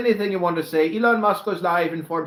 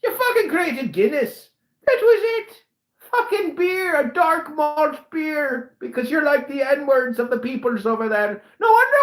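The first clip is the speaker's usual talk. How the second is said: shrill furious tirade, higher; angry high yelling; 8 semitones higher than usual. Acted. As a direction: yell it, voice climbing. Rant continues, pitch way up.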